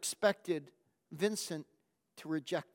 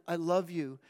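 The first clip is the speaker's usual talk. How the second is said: choked repeated love; 3 semitones lower than usual. Acted. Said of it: "incoherent through the pain".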